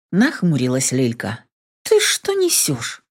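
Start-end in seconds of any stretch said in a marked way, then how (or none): 1.8-3.0 high, slow, outraged cry; sharp disbelieving outburst. A narrator's reading. Lilka rounds on her sister in outrage.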